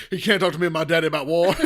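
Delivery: mock character voice. Mocking the character's line.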